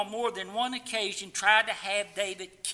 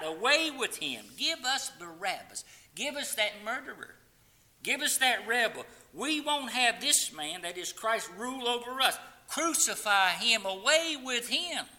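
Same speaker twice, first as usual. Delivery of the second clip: rising mock crowd outcry, louder toward the end; crowd crying out; 3 semitones higher, 4 dB louder than usual. Preacher voicing the crowd demanding Barabbas over Jesus, hammed-up mob shout. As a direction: cry out like an angry mob demanding crucifixion. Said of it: "the builders cried".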